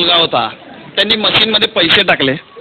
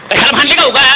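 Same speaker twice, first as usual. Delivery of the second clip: higher mock-stern brother on the phone; scolding and consoling; 4 semitones higher than usual. Brother scolding his sister after her fight with her husband, higher mock-stern voice. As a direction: scold her, then tell her to stop crying.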